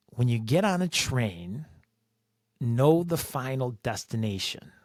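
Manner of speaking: measured calm, pausing between the phrases. Retold or imitated. Older transit worker advising a young rider on the train, calm. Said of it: "With a calm voice".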